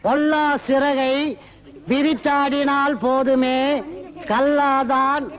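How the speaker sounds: measured, drawn-out poem lines with pauses; teacher intoning Tamil poetry; classroom verse recitation. Acted. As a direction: recite the old verse phrase by phrase.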